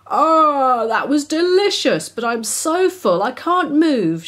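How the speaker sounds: high mouse moan; whimpering mouse. A narrator's reading. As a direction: groan happily, too full to move. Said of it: "she whimpered aloud".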